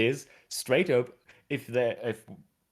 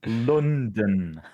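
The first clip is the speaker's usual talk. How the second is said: "London" said louder as a firm correction; emphatic correction; 6 dB louder than usual. Real, not acted. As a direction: land hard on "London" to correct them. Corrects co-host who said Lennon.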